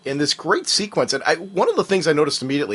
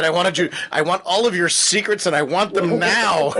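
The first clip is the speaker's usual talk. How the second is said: mock demanding; 3 semitones higher than usual. Host jokingly demands secrets.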